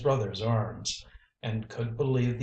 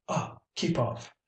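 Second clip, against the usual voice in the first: scream; 4 semitones higher than usual. A narrator's reading. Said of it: "with a scream".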